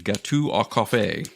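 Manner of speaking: slow, muddled mock-French accent; dubious foreign accent. Host announcing coffee cake in French, dubious put-on accent. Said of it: "I don't know what that accent was".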